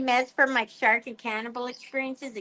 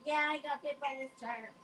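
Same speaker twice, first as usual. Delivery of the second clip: offhand brag; 3 semitones higher, 12 dB quieter than usual. Pretend. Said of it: "I'm like".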